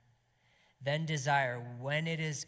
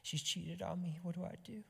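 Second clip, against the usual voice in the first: pained prayer; 3 semitones higher, 3 dB quieter than usual. Acted. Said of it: "He's like".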